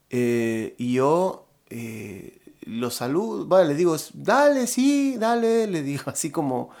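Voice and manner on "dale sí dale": high, loud, over-eager yes; imitating an obliging, high-pitched agreement; politely agreeing. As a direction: go along with it so as not to refuse. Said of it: "como pa no decirle que no".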